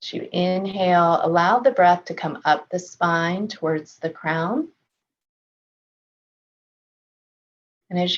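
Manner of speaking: calm, measured meditation voice with long pauses; unhurried body-scan guidance, settled and even; guided meditation. Real, not acted. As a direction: gently guide them through a body scan, leaving space to breathe.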